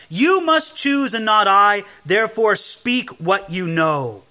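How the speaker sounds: measured, emphatic Bible reading; scripture reading. Acted. Preacher reading Job's verses to the congregation, emphatic scripture reading. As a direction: read the verses out with weight.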